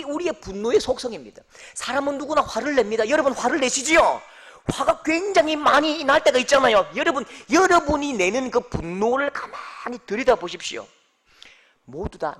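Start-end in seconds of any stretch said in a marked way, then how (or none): 1.7-10.9 raised, louder pulpit delivery; forceful preaching. Acted. Preacher challenges the congregation about their anger, preaching forcefully. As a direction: press the point on the congregation, high and strong.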